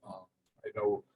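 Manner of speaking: real soft, faint speech; too quiet to hear. Real, not acted. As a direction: let the volume sink until listeners struggle to hear. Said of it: "can you speak up a bit more".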